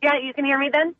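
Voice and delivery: clipped phone line. Real, not acted. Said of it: "I'm calling from my car".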